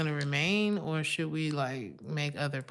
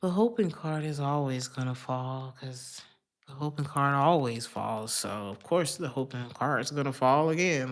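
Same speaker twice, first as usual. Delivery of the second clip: hammed-up pessimist, loud on the stressed words; mock pessimist; 2 semitones lower, 5 dB louder than usual. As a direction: play a defeatist talking themselves out of hope. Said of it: "imagine if I always was like".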